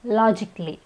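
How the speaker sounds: logically said with the A dropped; logically in three syllables, no A before the L; silent A. Shown as a demonstration. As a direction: say logically as LOJ-ik-lee. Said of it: "the A is silent".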